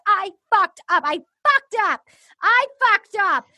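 high-pitched imitation of a distraught singer; hammed-up tearful wail, each repeat anguished; mock wailing. Host imitates a singer coming off stage in tears, mock wailing. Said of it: "And then she's weeping".

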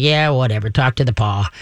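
low, unimpressed dog voice; dismissive dog. Acted. Dog tunes out the owner's lecture, dismissive. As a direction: brush it off in a low tone. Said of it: "the dog is like".

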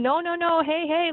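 high mock yell at moderate volume; rapid, high-pitched pleading hollers, held back; retold yelling. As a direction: re-enact frantic warning shouts. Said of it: "and I'm yelling".

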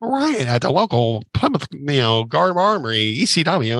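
hint of an announcer's lilt; news radio announcer. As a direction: read it like a breaking radio bulletin. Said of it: "we made the local news radio".

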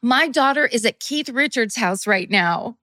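mildly hammed-up proud announcement; excited bragging mom. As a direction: announce it to the whole restaurant. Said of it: "excitedly telling everyone that".

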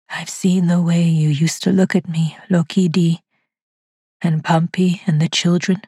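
lightly voiced caller, calm and eerie; lightly voiced ghostly caller. A narrator's reading. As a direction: speak like a faint voice from the dead.

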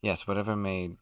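a hammed-up, posh-sounding British podcast host; put-on British accent. Podcast host greets his listeners, in a put-on British accent. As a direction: play a mock British gentleman all the way through. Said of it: "We just find it enjoyable to speak this way".

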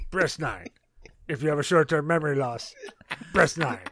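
lightly voiced cartoon villain hotline recording; hint of cartoon villain as automated menu; Strong Bad. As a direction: read phone menu options in a character voice. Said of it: "in the strong, bad voice".

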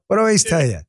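a thick Queens New York accent. Shown as a demonstration. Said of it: "go back to my New York accent".

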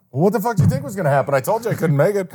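hammed-up kicker's whatever-did-you-expect; fast exasperated kicker. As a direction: fire it off like the fed-up kicker. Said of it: "he goes".

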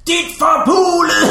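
slow, high, loud laughing yell; mock drunk yell. Friend imitating the fallen drunk, yelling and laughing. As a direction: drag out the curse while cracking up. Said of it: "han ligger der og råber".

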